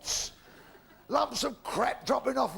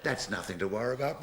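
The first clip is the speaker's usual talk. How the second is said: low vicar; 11 semitones lower, 4 dB quieter than usual. Acted.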